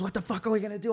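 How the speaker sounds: high, hushed mock panic; freaking out. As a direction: act out a panicked friend without volume. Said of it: "freaking out".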